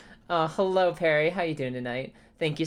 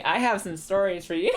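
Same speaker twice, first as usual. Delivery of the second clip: laughing; 2 semitones higher than usual. Real, not acted. Giggly greeting to chat.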